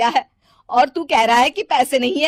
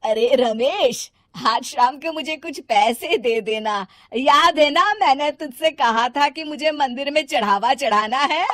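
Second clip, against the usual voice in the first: mother calling to her son, raised and higher; 6 semitones higher, 6 dB louder than usual. Acted. Mother calls Ramesh to ask for temple money, calling out. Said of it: "माँ उसे आवाज देकर कहती है".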